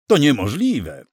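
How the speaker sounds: high-pitched, indignant disbelief; scandalized rejection; indignant protest. A narrator's reading. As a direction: object sharply, voice jumping up. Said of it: "żachnął się inny z obecnych".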